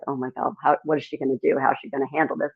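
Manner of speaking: soft, hushed worried guys; mock nervous whisper among the band; a hint of worried bandmates; worried murmur. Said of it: "the guys were like".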